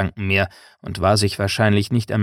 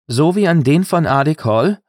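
raised, louder challenge; calling out; 7 semitones higher, 5 dB louder than usual. A narrator's reading. Rowan challenges Gaddo about his broken oath, calling out. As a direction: throw the question back as a higher-pitched call. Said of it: "rief Rowan".

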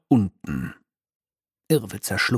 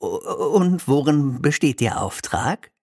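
stammering; 5 semitones higher than usual. Acted. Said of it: "stammelte Irrwitzer".

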